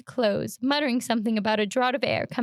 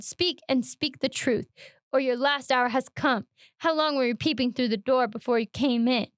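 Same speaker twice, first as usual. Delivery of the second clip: menacing. Acted. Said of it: "cried Todd".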